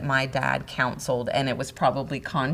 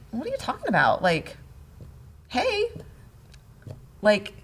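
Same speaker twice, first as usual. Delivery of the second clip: higher, insistent protest; mock indignant; 6 semitones higher, 4 dB louder than usual. Wife retells her protest to husband, higher and insistent. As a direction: push back like it's all obvious.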